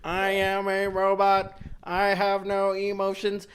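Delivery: lightly voiced droning robot. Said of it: "show us what".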